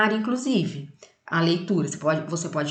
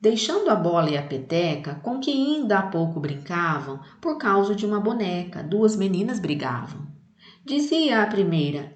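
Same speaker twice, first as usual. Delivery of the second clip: livelier recital with more rhythm and intonation; expressive poem recital; 3 semitones higher than usual. Shown as a demonstration. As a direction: show the class the musical rhythm of the poem. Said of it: "Por exemplo, olha". (declamação expressiva do poema)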